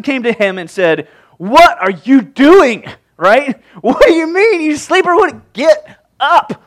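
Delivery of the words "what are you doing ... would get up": high, loud, exasperated outburst; incredulous captain's shout. Acted. Captain finds Jonah asleep in the storm, shouting in disbelief. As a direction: shout a sleeper awake, punching the words.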